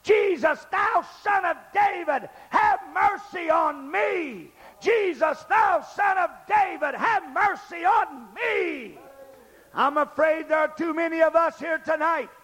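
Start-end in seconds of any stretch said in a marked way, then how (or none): 0.0-9.0 pleading call, slow and stretched on have mercy on me; a blind man crying out as Jesus passes by; earnest cry for mercy. Retold or imitated. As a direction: cry it twice like a desperate beggar. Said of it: "a cry of earnestness".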